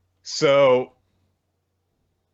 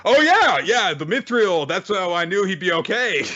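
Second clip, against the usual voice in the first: much higher, louder bluffing squeak; goofy high voice; 10 semitones higher, 4 dB louder than usual. Retold or imitated. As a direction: fake it with a squeaky cover-up. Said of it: "And Sen's like".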